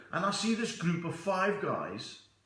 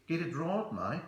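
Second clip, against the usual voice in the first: mock Aussie telling someone off; put-on Australian twang, rising on "mate"; lightly voiced Australian correction; Australian accent. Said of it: "And this guy says".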